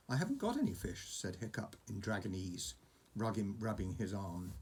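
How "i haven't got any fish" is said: put-on higher, quick boy's protest; a worried boy pleading his case; anxious boy. Hiccup telling the dragon he has no fish, higher.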